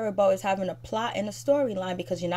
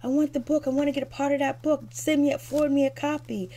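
mock eager; 6 semitones higher than usual. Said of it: "Jennifer's like".

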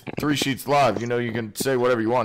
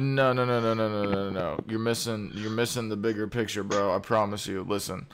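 softer and lower, leaning in; hushed insistence; 4 semitones lower, 6 dB quieter than usual. Real, not acted. Host quietly insisting to the caller he's missing the point. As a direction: drop your voice to let him in on a secret.

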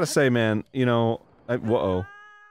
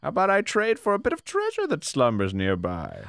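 game character bargaining; 3 semitones higher, 3 dB quieter than usual. Acted.

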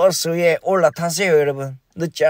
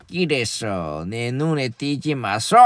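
quiet threat; 5 semitones lower, 6 dB quieter, slower than usual. Pretend. Caller's final threat.

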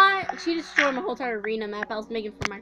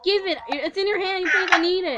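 high, insistent demand; yelling across the room; 5 semitones higher, 3 dB louder than usual. Real, not acted. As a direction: call out demanding it back.

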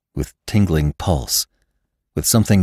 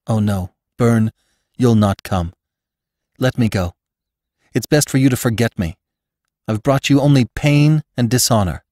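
put-on lightly raised young woman's voice, pleading; Bess pleading; 3 semitones higher than usual. Bess begs Venters to forget her, lightly raised pleading. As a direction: beg him to let her go, a touch higher.

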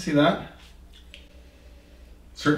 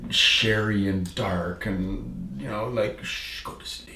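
1 soothing hush; 6 dB quieter, much slower than usual. Acted. Describing a sleepy nightcap.

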